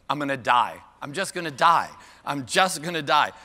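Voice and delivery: hammed-up dying of dismay, each repeat pushed; mock despair. Mock despair at audience not knowing Wendt.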